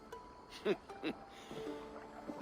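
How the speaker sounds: soft, breathed chuckle; quiet laugh under the breath. Acted. Amused before agreeing to terms.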